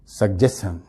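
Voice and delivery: "سجیشن" joined up with a G: sug-jes-chun; no break inside "سجیشن"; fluent pronunciation. Shown as a demonstration. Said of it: "روانی میں". ("سجیشن" روانی میں، جی کے ساتھ)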